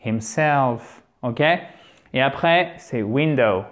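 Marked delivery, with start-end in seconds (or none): 0.0-1.0 Himself, weight on the falling self; stress on SELF. Shown as a demonstration. Teacher modelling the pattern for learners, Himself stressed on self. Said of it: "il est toujours sur le self". 3.0-3.6 window, hit WIN and fall away on dow; short i, stressed WIN in window; stress on first syllable. Shown as a demonstration. Teacher modelling window for learners, stressed on WIN. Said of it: "l'accent tonique est sur la première syllabe".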